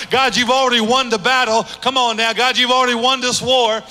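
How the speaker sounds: rising rapid-fire sermon cadence; building preached declaration. Acted. Believer telling God the battle is won, building triumphant preaching.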